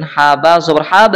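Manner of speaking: "হাব" with a bouncing release on the final b; qalqalah. Shown as a demonstration. Teacher demonstrating qalqalah, "হাব" ending in a bounced b. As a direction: let the closing b of "হাব" echo briefly. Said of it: "এই যে কলকলা".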